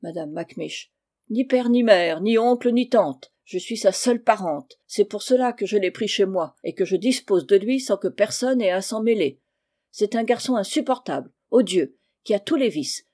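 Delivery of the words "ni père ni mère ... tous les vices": raised, insistent complaint; indignant aunt. Acted. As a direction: denounce the boy with indignation. Aunt denounces the boy to Holnick. (tante indignée)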